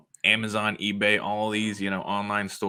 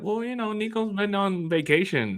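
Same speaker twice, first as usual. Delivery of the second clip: laughing mock reply; 7 semitones higher, 5 dB louder than usual. Voicing reply, laughing, high.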